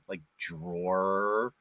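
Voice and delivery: drawer said the Boston way, no r. Shown as a demonstration. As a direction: drawer with the r dropped, like draw-uh. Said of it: "words that I just cannot say".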